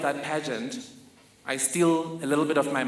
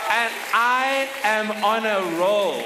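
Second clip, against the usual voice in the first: higher, louder, thrilled; excited; 5 semitones higher, 5 dB louder than usual. Real, not acted. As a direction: ride the high of winning. After winning pageant.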